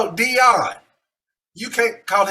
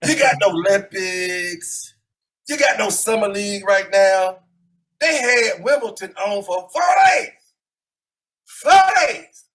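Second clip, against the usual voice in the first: put-on grumpy old man; 3 dB louder than usual. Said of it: "I'm going into character now".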